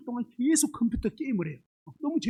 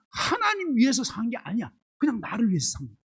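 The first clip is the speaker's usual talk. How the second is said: usual speaking voice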